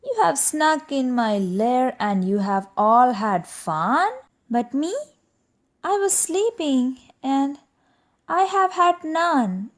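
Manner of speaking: whiny complaint. Acted. Bear's complaint.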